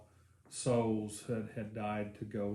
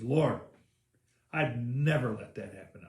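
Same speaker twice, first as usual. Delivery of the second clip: emphatic protest; 6 dB louder than usual. Retold or imitated. Peter protesting to Jesus.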